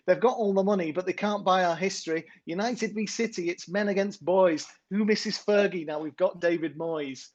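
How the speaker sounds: attempted Manc accent. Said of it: "a proper Manc accent for this".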